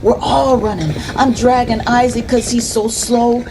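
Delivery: high, urgent telling; panicked narration. A narrator's reading. Boy recounts fleeing a gunshot, panicked. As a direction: tell it as if running for your life.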